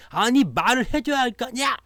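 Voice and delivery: high, loud exasperated outburst; exploding boyfriend. Acted. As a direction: blow up at the girlfriend in mock fury. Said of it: "결국엔 남자가 폭발해".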